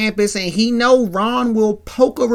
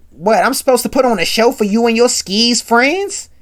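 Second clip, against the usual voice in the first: mildly heated, louder indignant question; upset; 5 semitones higher, 4 dB louder than usual. Retold or imitated. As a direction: act out an upset boyfriend's retort. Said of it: "he gets upset".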